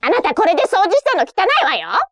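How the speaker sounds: high, fast nagging mom; nagging strict mother. Acted. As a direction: criticise the sloppy cleaning. Strict mother criticising cleaning.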